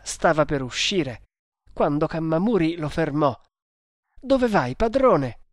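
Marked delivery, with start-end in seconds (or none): 4.2-5.4 high, urgent question; worried cry, pitched well up; alarmed appeal. Acted. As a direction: call out to stop your master. Servant stops master rushing out.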